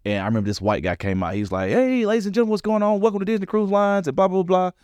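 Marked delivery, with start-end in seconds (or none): 1.7-4.7 high, hammed-up cruise host greeting; mock show host. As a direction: ham it up like a stage emcee.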